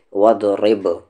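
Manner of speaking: وَاضْرِبْ with the final ب bounced, lips striking apart; qalqalah bounce. Shown as a demonstration. Teacher showing the class how the ب of وَاضْرِبْ bounces. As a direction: tap the lips together on the ب of وَاضْرِبْ. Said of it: "اس کو ٹکرائیں گے".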